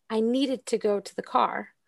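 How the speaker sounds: gentle emphasis on "needed"; stress on "needed". Shown as a demonstration. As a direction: let "needed" carry the intonation, the rest even. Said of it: "put the intonation in the syllable of needed".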